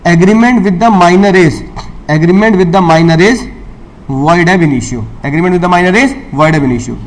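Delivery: very slow, word by word, for note-taking; slow dictation. Shown as a demonstration. Teacher dictates the rule slowly for students to copy down. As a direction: spell it out slowly so they can write. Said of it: "पहला".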